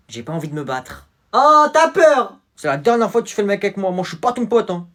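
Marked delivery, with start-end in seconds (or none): 1.3-4.9 provoque, très aigu et fort; voix de provocateur. Acted. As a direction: nargue l'adversaire. Provocation avant la bagarre. (provocation criée avant la bagarre)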